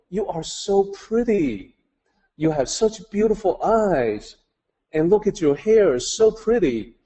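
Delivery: put-on high, gushing praise for a small child; high sing-song baby talk; baby talk to a little girl. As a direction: coo over the girl like you're charmed by her. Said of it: "the baby talk".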